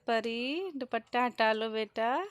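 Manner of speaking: put-on drawn-out call to a little girl; calling out to the baby. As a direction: call the child gently but loudly. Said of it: "हम उसको आवाज़ दे रहे थे".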